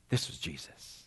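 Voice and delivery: hushed, breathless realization; whispered awe. Acted. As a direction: let the truth dawn in a whisper. Whispered revelation.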